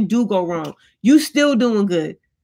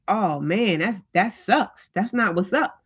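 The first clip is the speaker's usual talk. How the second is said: mild sympathetic dismay; 5 dB quieter, slower than usual. Acted. Friend hearing something went wrong, mildly dismayed. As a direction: imitate a concerned friend, softly. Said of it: "they're not happy about that".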